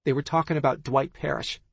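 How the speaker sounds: high, quick gossiping friend; gossipy friend. Acted. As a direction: spill the gossip eagerly.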